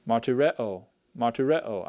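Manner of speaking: martyreo, said clearly with the stress on the third syllable, re; teacher model-pronouncing martyreo for the class; said twice as a model; Greek word read slowly. Shown as a demonstration. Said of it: "notice where the stress is on these".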